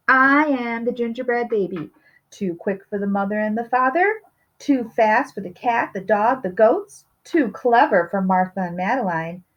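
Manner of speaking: high, cocky cookie brag; playful gingerbread taunt; gingerbread baby boast. Acted. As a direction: gloat like an unstoppable cookie.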